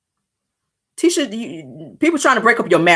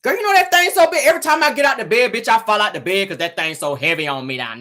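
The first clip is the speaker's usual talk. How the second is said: bragging man. Retold or imitated. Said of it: "They not on that".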